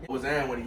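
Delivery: "What's up with it" run together as "wuzzam wit it"; New Orleans greeting. Shown as a demonstration. Showing partner New Orleans slang, "What's up" as "wuzzam". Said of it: "the accent come from".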